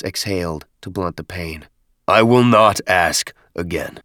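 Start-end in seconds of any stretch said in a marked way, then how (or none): 2.1-4.0 lightly voiced stern chieftain; a touch of commanding menace; stern warning. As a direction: give a final warning with weight. Chieftain's last warning to nephew.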